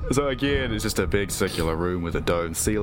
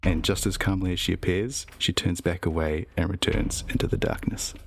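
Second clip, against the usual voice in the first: story narration. Acted. GM narrates vision.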